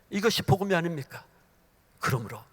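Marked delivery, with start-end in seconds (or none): none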